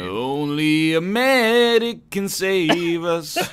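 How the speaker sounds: slow, grave mock-epic line; slow dramatic. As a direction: draw it out like a trailer.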